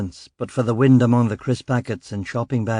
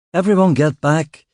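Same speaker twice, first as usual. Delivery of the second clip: raised, firm order to the crowd; commanding order; 4 semitones higher, 5 dB louder than usual. Acted. Detective ordering onlookers away from the body, loud command. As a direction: push them back with your voice. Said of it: "I said".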